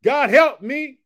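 high, loud plea; call to repeat. Shown as a demonstration. Preacher asking viewers to say the prayer with him, high and loud. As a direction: cry it out to God at a normal pace. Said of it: "Can you help me say that".

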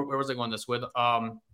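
losing the thread, voice dropping away; trailing off. Real, not acted. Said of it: "I lost my train of thought".

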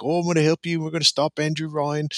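put-on friendly Irish accent, pitched high; imperfect put-on Irish accent, drifting elsewhere; Atlas. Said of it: "friendly Irish sort of accent".

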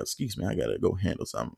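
soft, quick restrained excuse; quiet polite excuse. Retold or imitated. To the girl before confronting roommate: soft quick excuse.

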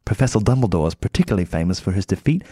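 put-on British accent, reading aloud. Reading Dumbledore's chocolate frog card, British accent. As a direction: read it out like a British narrator. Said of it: "I want to do this in a British accent".

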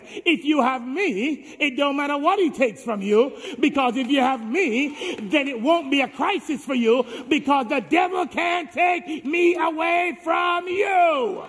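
rising to a high, loud preacher's cry as God; God speaking, preached. Acted. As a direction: thunder God's promise at the church. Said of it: "And God says".

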